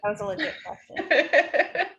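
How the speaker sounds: light mock British accent. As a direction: say it like a posh Brit. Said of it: "I said correct in a British accent".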